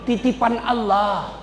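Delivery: slow, steady voice of faith; Ayub answering calmly. Acted. Ayub rebuking Satan, slow and steady. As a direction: answer the devil patiently. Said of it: "Apa kata Ayub?".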